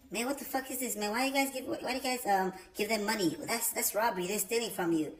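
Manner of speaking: high, puzzled grumble of an outraged guest; grumbling complaint. Retold or imitated. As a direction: mutter it like he can't believe it. Atheist grumbling at offertory.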